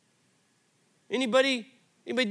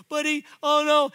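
higher and louder, a dad's sudden alarm; alarmed cry; 8 semitones higher, 6 dB louder than usual. Retold or imitated. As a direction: blurt it out in alarm. Alarmed thought, son limp.

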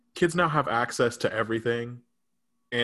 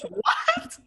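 much higher and louder, incredulous; shocked disbelief; 3 dB louder than usual. Retold or imitated. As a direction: react as if the niece said something absurd. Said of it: "I was like".

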